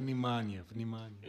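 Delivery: flat robotic alarm voice; emotionless robot. Pretend. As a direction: say it like a machine announcement. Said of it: "una voce robotica che continua". (voce da robot impassibile)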